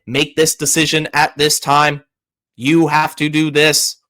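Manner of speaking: monotone computer voice; robot voice. Pretend. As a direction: speak like a machine. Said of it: "I'm gonna talk in a ro-, robot voice".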